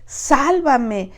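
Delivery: pleading, a touch of panic; desperate cry. Retold or imitated. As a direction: cry out for rescue as if sinking. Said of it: "Pedro clamó".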